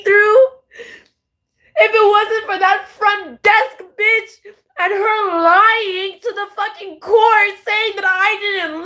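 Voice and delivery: crying while protesting, voice cracking; real crying anger; tearful accusation. Real, not acted. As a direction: plead through tears. Crying, accusing those who wronged her.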